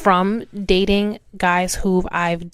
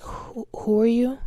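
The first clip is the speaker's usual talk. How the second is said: higher-pitched mock puzzled question; feigned non-recognition; 5 semitones higher than usual. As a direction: act like you have no idea who this is. Acts out pretending not to know someone.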